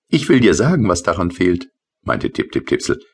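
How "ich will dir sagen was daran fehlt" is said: high, light little sprite voice; tiny rain sprite. Acted. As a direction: play the small rain creature, pitched up. Tipsel's voice in story. (hohe, leichte Koboldstimme)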